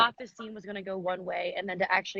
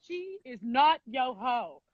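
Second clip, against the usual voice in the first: laughing; much slower than usual. Retold or imitated. Quoting the episode, laughing.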